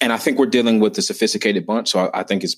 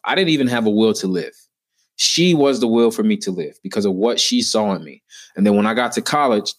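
ordinary talk

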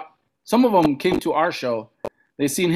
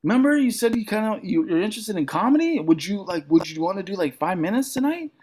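imitating friend; 5 semitones higher than usual. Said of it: "he's like".

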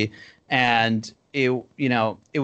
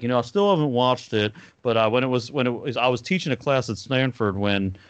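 Hank Hill voice. Retold or imitated. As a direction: slide a hint of Hank Hill's twang into the quote. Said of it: "I guess I'm also doing Hank Hill from King of the Hill".

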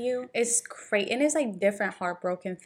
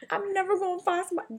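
mock despair; 10 semitones higher than usual. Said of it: "I'm like".

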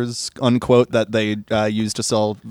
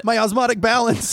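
high squeaky voice; 10 semitones higher than usual. Acted. Voicing dying character, high.

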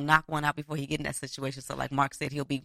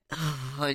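acted spent sigh; 4 dB quieter than usual. Friend retelling how he finished after two strokes, acted sigh.

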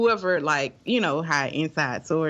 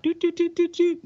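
dial tone; 11 semitones higher than usual. Retold or imitated. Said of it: "you know how C dot be like".

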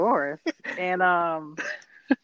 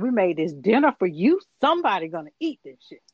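mock angry Rosalie. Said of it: "She's like".

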